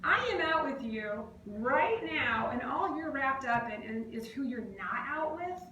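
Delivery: an irritated rebuke to a friend. Retold or imitated. Speaker scolding a friend busy taking photos, irritated. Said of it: "That makes me so irritated".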